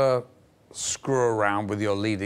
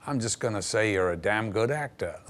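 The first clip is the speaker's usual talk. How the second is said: understated. Retold or imitated. Director tells actor what he will say about him, understated. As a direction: offer the modest compliment evenly.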